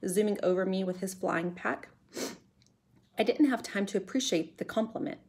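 put-on measured read-aloud for children; story narration. A narrator's reading. Teacher reading a chapter to pupils, storytelling voice. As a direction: tell the adventure clearly, with suspense.

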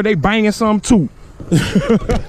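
high, loud proud exclamation; excited boasting. Real, not acted. Dad showing off his little monsters, excited. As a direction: crow loudly over the little ones.

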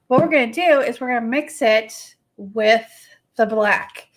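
talking with hiccups; hiccuping between words. Real, not acted. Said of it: "I got the hiccups again".

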